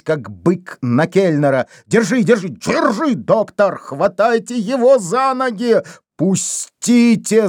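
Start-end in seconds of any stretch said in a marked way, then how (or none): 1.9-5.8 high, frantic cries to hold him; frantic shouting. A narrator's reading. Shouting during a scuffle. 6.2-7.5 slow drawn-out frantic yell; вопль; beside himself yelling. A narrator's reading. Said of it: "заорал вне себя Дембо".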